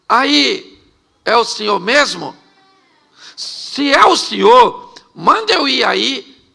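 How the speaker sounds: Peter hesitantly hailing someone out on the water; calling out. Acted. Pedro calls out to Jesus.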